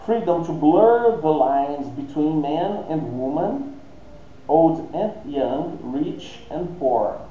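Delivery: slow, deliberate English read-aloud; measured, spaced-out teacher reading. Shown as a demonstration. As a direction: read it out slowly for language learners.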